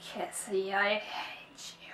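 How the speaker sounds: soft, slow, unvoiced whisper; whispered complaint. Real, not acted. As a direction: whisper a wounded accusation at the author. Blaming author after sad twist.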